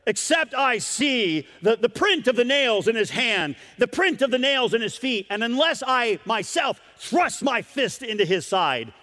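Thomas, defiant doubter. Acted. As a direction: insist you won't believe. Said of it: "Thomas ... the doubter".

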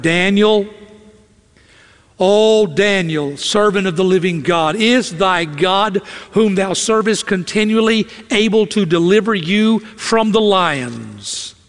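slow, drawn-out mournful calling; a lightly played grieving king calling out; pitiful lament. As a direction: plead into the den for a lost friend. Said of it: "in a pitiful, pitiful voice, a lamentable voice".

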